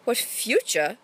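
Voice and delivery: Shakespeare turning the words back, lightly; Shakespeare echoing Burbage's words; echoed question. Acted. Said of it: "Shakespeare echoed".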